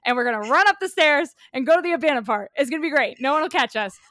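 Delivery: fast, loud, giddy scheming; excited plotting. Retold or imitated. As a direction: race through the plan with glee. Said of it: "we were like".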